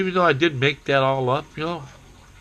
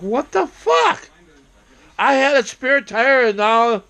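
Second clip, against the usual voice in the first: much higher and louder, slow, disbelieving; outraged yell; 13 semitones higher, 5 dB louder, slower than usual. Retold or imitated. Finding a stranger's tire in his basement, high outraged yell. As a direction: shriek it like you've been robbed.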